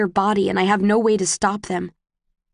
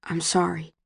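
soft, slightly lowered voice; gentle apology; 3 semitones lower, 5 dB quieter than usual. A narrator's reading. Tobias apologizes to a crying Tris, gently. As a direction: apologize quietly and tenderly. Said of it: "he says gently this time".

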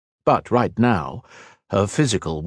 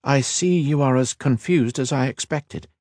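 higher, gentle voice; 6 semitones higher than usual. A narrator's reading. Kira to confused Kat, gentle. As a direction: soothe the confused friend. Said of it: "said in a gentle voice".

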